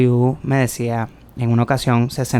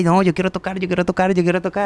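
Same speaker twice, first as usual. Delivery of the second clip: put-on high, childlike pleading; a hint of a small boy begging; eager child pleading; 6 semitones higher, much faster than usual. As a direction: beg like a little kid who wants his turn. Child begging to play drums.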